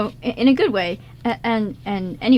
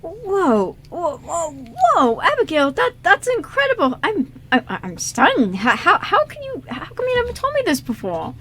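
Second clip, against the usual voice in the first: amazed; 4 semitones higher than usual. Acted. Liam amazed at proof.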